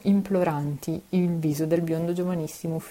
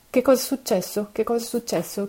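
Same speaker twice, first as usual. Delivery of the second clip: higher, urgent repeated question; anxious cry, pitched up; 6 semitones higher than usual. A narrator's reading. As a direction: ask in rising panic. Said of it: "chiese ansiosamente".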